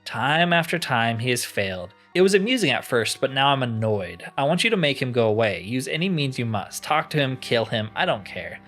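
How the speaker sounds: mildly imperious, giving orders; a touch of grand impatience; lightly voiced annoyed enchanter. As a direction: play a weary master issuing a task, understated. Voices crystal enchanter in game.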